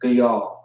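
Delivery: GAYAL ending on the L; dropped final A. Shown as a demonstration. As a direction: say "gayal" as guh-YAHL, no vowel after the L. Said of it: "Because the A drops off with the la".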